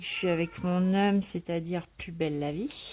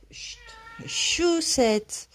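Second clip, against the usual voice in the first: high, louder scolding call of the cat's name; sharp call to the cat; 11 semitones higher, 5 dB louder, much slower than usual. Real, not acted. Vlogger scolds her meowing cat mid-video: sharp loud call.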